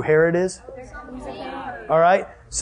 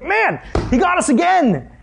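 much higher, grumbling Pharisee voice; sulky Pharisee; 10 semitones higher than usual. Retold or imitated. Mocking the defeated Pharisees to the youth group, high and sulky. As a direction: pout it out like a beaten Pharisee. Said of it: "They're like".

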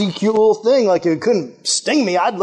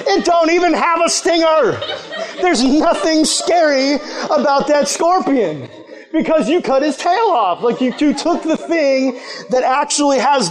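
laughing; 5 semitones higher than usual. Real, not acted. Laughing at the scorpion story.

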